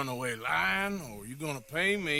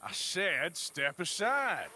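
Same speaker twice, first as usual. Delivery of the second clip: firm command; 3 semitones higher than usual. Acted. Firm repeated order.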